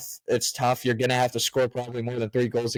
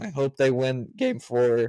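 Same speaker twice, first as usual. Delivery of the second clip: bad voice crack partway through the line. Speaker talking hockey and backing the Stars, voice cracking. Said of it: "That was a bad voice crack".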